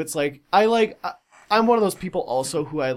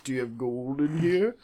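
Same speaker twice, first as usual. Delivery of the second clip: Lich King voice; 4 semitones lower, 4 dB quieter than usual. Pretend. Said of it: "he's like".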